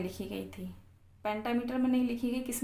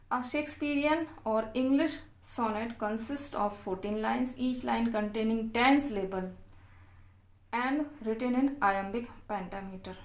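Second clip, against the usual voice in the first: reading notes aloud very slowly, word by word; slow dictation reading; much slower than usual. Acted. Teacher dictating English notes to students, very slow and deliberate.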